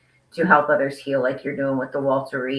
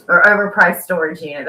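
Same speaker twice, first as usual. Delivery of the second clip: "overpriced" hit louder as the correction; stress on overpriced; 2 semitones higher, 6 dB louder than usual. Real, not acted. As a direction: punch "overpriced" in the phrase. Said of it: "That's what it was, overpriced".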